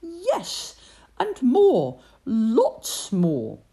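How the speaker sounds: high, loud squeal of delight; gleeful little mouse cry; excited. Acted. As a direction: Tim thrilled at the plum. Tim delighted by gift.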